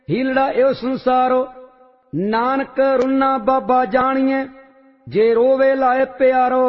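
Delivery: steady, measured recitation of a sacred hymn; devotional scripture recitation. Real, not acted. Reciter chanting Vadhans hymn to the congregation, reverent and measured. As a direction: intone each line with reverent calm.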